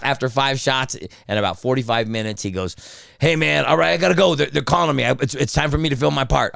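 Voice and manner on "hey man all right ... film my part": higher-pitched quote of a pal called away; retold excited goodbye; hurried sign-off. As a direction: break off the call in a lively rush. Acted hurried sign-off by phone.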